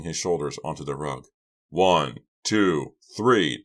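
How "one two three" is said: breathless counting; out of breath. Acted. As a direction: pant the count out. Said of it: "Doug counted, out of breath".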